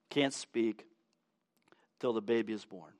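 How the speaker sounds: hushed, breathy whisper. Real, not acted. Preacher telling of the silenced priest, whispered. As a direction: drop to a whisper.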